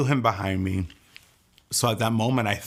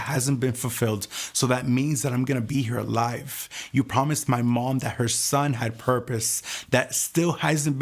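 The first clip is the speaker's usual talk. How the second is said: a hint of raised, declaring prayer; bold prophetic prayer; 2 semitones higher than usual. Praying to the Lord on the floor, lightly declaring. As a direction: claim life back from God with conviction. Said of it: "I started to prophesy over my life".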